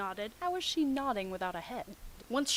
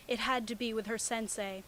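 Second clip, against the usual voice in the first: ordinary delivery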